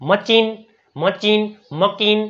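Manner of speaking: મચીન and મકીન said as mistaken readings of machine; મચીન, મકીન as wrong pronunciations; wrong readings shown. Shown as a demonstration. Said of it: "નો વાંચ્યું".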